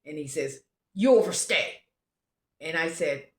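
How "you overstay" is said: imitated Austrian accent, loud and higher. Austrian border guard accuses a traveler, imitated Austrian accent. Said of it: "he had a very strong accent".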